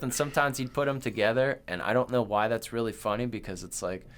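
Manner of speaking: normal talking voice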